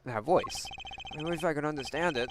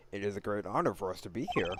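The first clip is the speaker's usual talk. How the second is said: put-on low, tentative Russian accent; 7 semitones lower than usual. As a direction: try out a light Russian accent. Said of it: "I could give him a Russian accent".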